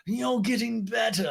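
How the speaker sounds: high, soft, slow posh voice; breathy grande dame advice; Lisa impression. Lisa advises Allie in interview, high soft posh voice.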